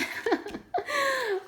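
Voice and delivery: high-pitched delighted laugh; high giggle. Real, not acted. Joking she will hoard the gifted tags, with a high giggle. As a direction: burst into a squeaky giggle.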